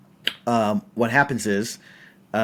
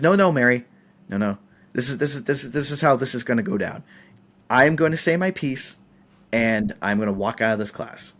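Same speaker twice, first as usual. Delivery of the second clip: firm heated; faster than usual. Retold or imitated. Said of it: "I stormed up".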